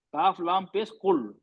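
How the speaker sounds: slow letter-by-letter, काफ लाम पेश कुल; spelling out kul. Shown as a demonstration. (धीरे-धीरे हर्फ़ जोड़कर पढ़ना)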